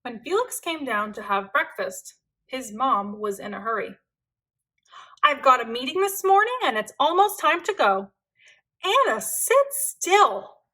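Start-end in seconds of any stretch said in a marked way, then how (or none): 5.2-10.6 fast, louder flustered mother; busy mom scolding; hurried mom. Acted. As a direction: rush it like a late parent.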